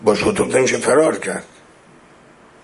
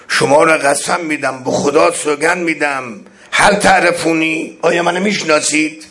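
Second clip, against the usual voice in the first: imploring imam; 6 semitones higher than usual. Acted. Imam pleads with enemy army.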